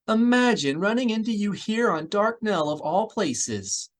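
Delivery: put-on an overjoyed old acquaintance; gushing Elise. A narrator's reading. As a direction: gush with delighted recognition.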